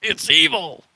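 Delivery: horrified, cry out the warning; panicked cry. Acted. Hermit recoils from offered money.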